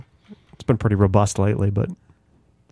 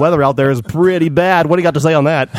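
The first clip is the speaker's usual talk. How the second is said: radio voice; 5 semitones higher, 4 dB louder than usual. Pretend. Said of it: "radio voice".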